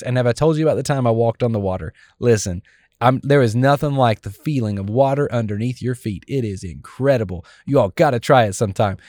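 a light touch of beaming, fast-talking Peter; preacher voicing a delighted Peter to friends, fast and beaming; joyful Peter. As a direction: brag happily about walking on water, quickly. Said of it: "You can hear Peter and his smile and his joy".

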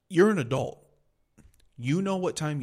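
loud, sharp scolding; furious lecture to commuters; exasperated shout. Real, not acted. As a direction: bark it at lazy drivers. Rant at late commuters.

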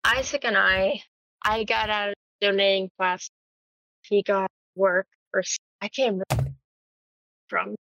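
mic cutting in and out; words dropping out on a bad mic; choppy cut off endings. Real, not acted. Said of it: "your mic's going in and out".

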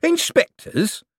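"Inspectors" very high and slow, as a query; savouring, questioning. A narrator's reading. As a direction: stretch "Inspectors" out in high-pitched wonder. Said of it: "said Mister Shady again".

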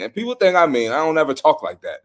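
offended disbelief; emphatic. Real, not acted. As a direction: push back hard on the word think. Defensive outburst at critics.

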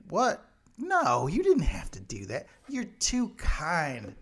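a hint of a flustered polite Brit, pitch jumping up; lightly voiced gushing Englishman declining a gift; mock British politeness. Great Britain politely refusing gift.

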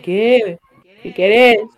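whiny high "what do you want" to a parent; high-pitched Spanish voice. Shown as a demonstration. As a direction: answer parents in a squeaky-high register. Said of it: "like, it's high-pitched".

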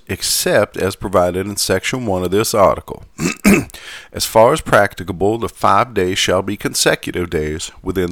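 put-on light Southern gentleman accent; old southern gentleman. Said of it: "going back to my Southern gentleman accent".

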